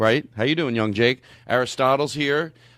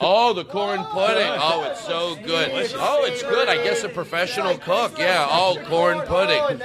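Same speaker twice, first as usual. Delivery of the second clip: over-the-top praise; 6 semitones higher than usual. Retold or imitated. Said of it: "And we all did this".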